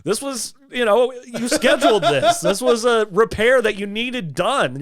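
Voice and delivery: high, lightly voiced sister; a hint of an exasperated sister setting him straight; sister correcting him. Sister explaining the scheduled repair, lightly mimicked high voice. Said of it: "she's like".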